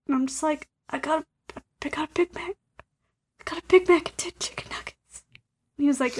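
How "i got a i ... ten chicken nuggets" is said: halting, breath-only confession; ashamed whisper. Retold or imitated. Wife confessing her fast food order to husband, ashamed whisper. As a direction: whisper the order as if it were shameful. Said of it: "you did whisper it".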